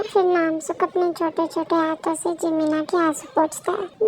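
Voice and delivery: calm narrator stepping out of the scene; story narration. A narrator's reading. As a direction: narrate the scene quietly, like reading aloud. Narrator between character lines.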